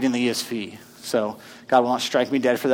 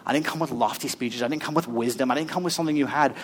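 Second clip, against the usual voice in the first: softer, intimate reading; quiet quoting; 6 dB quieter than usual. Acted. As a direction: say it gently, almost confiding. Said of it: "He says".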